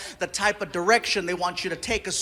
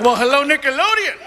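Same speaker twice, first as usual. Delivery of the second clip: coy hello, rising higher at the end; coy greeting; 4 semitones higher than usual. Acted. Comic answering Nickelodeon's call, coy and interested. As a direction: greet a tempting new suitor, stretched out. Acts delighted flirty reply to caller.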